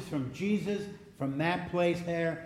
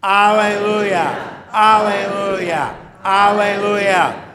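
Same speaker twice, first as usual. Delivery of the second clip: loud, slow, higher shouts, each drawn out; alleluia cheer; 5 semitones higher, 14 dB louder, much slower than usual. Shown as a demonstration. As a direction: lead the congregation's rousing cheer. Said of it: "let's say it three times".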